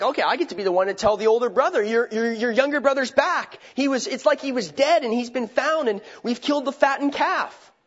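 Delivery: excited servant. Retold or imitated. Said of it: "the servant was probably excited".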